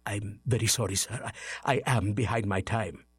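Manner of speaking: timid clerk. Acted. Bob meekly apologising to Scrooge, softly. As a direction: afraid of the boss.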